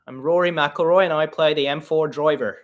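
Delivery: broad Irish accent; Rory McIlroy. Shown as a demonstration. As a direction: put on an exaggerated Irish brogue. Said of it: "Maybe an Irish one".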